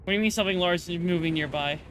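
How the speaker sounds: quick, rushed repeat of the question; fast. Shown as a demonstration. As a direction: rattle it off quickly.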